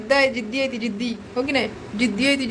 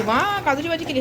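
lightly acted happy exclamation, pitched up; mock delighted praise, higher; Chetan, delighted; 6 semitones higher than usual. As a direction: imitate someone pleased at the food. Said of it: "Chetan तर खूप खुश होणार आहे".

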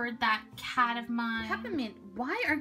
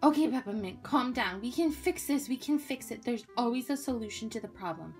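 lower, steadying voice; reassuring; 5 semitones lower than usual. Acted. Friend tells Peppermint they can fix it, reassuring. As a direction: settle a panicking friend. Friend calms panicking girl down.

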